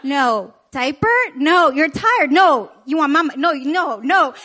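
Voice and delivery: loud guess-and-reject back and forth; frantic guessing game. Retold or imitated. Mom guessing what her crying baby wants, exasperated. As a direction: fire off guesses, knock each one down. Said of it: "like playing Pictionary twenty-four seven with a crying baby".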